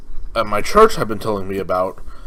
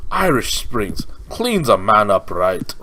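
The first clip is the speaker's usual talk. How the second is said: slow, drawn-out commercial slogan read; Irish Spring ad voice; slower than usual. Retold or imitated. Quoting the soap commercial he loves, slow mock ad voice. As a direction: lightly mimic the TV ad announcer. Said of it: "I just like the commercials for it".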